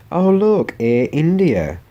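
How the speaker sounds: high, loud Oh look; excited. Real, not acted. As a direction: point it out with a sudden burst. Sudden high loud exclaim.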